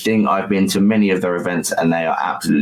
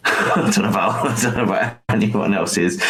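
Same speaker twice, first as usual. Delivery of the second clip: laughing. Real, not acted. Laughs while joking about accents.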